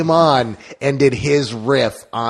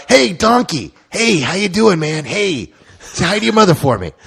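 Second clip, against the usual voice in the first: higher, friendly dude greeting; a lighter take on the high cheery voice; Mark Wahlberg impression; 6 semitones higher than usual. Wahlberg greeting a donkey, lightly voiced and higher. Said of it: "And then a donkey walk".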